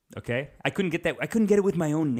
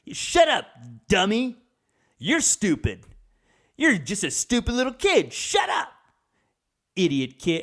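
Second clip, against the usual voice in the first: put-on much higher and louder, yelling down at the kid; mock furious dad shout; 9 semitones higher, 5 dB louder, slower than usual. Dad screaming back at his rude kid, hammed-up furious shout. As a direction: bark it back like an exploding father.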